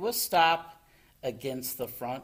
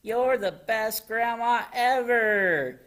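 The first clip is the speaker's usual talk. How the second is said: high, loud, gushing cheer; delighted praise; 9 semitones higher, 7 dB louder than usual. A narrator's reading. Froggy praises Grandma's dinner, high excited cry. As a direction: exclaim it with full enthusiasm. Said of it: "cried Froggy".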